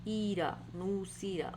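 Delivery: نو سیرا slowly as "noo-SEE-ra"; ایرا as "ee-ra", drawn out; "ee" second-last. Shown as a demonstration. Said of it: "second last sound آپ کو ای سنائی دیتی ہے".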